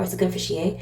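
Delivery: a light Caribbean lilt on the quote; Caribbean accent. Retold or imitated. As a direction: voice the speaker with a soft Caribbean accent. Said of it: "I picked up someone with a Caribbean accent".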